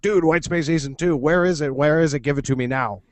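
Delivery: hammed-up fanboy pestering; fanatical raving. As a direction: demand it like an obsessed fan, mock-urgent. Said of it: "like, fanatically raves about".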